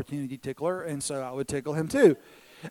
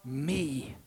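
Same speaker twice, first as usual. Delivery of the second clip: drawn-out plea, dropping away after a loud start; needy little son; 8 dB louder, slower than usual. Retold or imitated. Jealous son to dad after brother is hugged, drawn-out needy plea. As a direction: stretch it out, then trail down forlornly. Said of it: "run over and immediately say".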